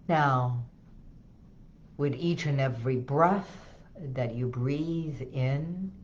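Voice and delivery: gentle, unhurried hypnotic guidance. Shown as a demonstration. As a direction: ease the listener down, word by word. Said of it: "So this is the voice that I go into".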